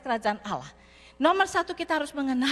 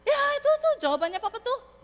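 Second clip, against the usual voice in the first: sheepish laugh; 10 semitones higher than usual. Retold or imitated. Embarrassed son admits reply.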